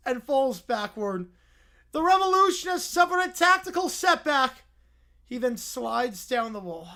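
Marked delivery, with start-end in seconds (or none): 1.9-4.6 higher, louder mock-serious report; mock grave announcer. Narrator mock-reporting the bear's defeat. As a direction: report it like a war bulletin.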